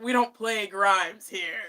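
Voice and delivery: loud, slow, emphatic house rule; mock stern ban. Retelling a scolding of the friend who played a certain singer, mock stern. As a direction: lay down the law in mock outrage.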